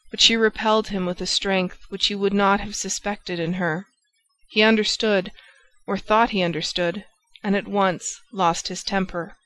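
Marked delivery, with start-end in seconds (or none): none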